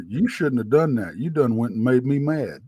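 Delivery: imitating an unbothered, understated warning; a calm country boy's matter-of-fact threat; monotone. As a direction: quote it evenly, without any heat. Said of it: "Just as monotone as that".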